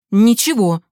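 громко и отрывисто; отрежь одним словом; резко. Acted. Мать резко обрывает. (мать обрывает сына, громко и резко)

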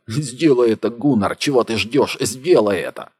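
loud, high, desperate urging; bleeding Martin urges Gunnar, shouting; urgent shout. Acted. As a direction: demand it, nearly screaming.

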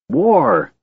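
high, gleeful war cry; gleeful shout. A narrator's reading. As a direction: cry it out with glee. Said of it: "he shouted gleefully".

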